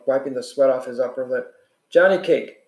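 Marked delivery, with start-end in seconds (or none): 1.9-2.6 hoarse voice. Acted. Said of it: "he said in a hoarse voice".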